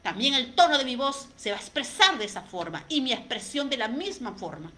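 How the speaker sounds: tono molesto, más fuerte; molesta. Shown as a demonstration. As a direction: habla con enojo contenido. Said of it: "si yo estoy molesta". (enojo demostrado en voz fuerte)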